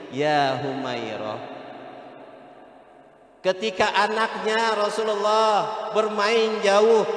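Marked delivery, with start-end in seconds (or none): 0.1-1.4 gentle call. Retold or imitated. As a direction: say the name lovingly, unhurried. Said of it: "Rasulullah nyamperin istrinya". (panggilan mesra yang pelan)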